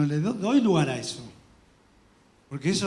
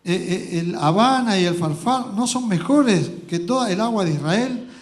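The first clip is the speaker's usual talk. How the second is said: furious; 7 dB louder than usual. Acted.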